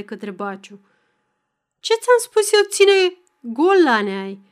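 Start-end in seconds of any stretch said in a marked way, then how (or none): 1.8-4.4 loud, high-pitched angry bellow; roaring. A narrator's reading. Angry father advancing on the young man, roaring at him. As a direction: yell it at him, stretching the final words. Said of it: "urlă".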